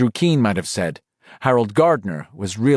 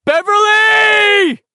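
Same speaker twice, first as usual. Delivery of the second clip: long drawn-out shout, much higher and louder; 8 dB louder, much slower than usual. A narrator's reading. Bill calling for Beverly in the tunnels, a long desperate shout. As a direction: call out across the dark at full voice. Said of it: "he shouted".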